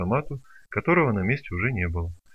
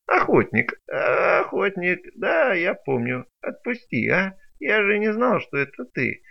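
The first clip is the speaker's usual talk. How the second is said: higher whiny pleading creature; whining plea; 8 semitones higher than usual. Acted. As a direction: beg him to let go. Creature squealing excuses. (жалобно, выше)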